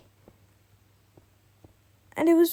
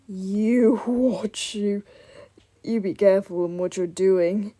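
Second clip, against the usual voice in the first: mock threat; slower than usual. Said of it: "grabs me by the neck".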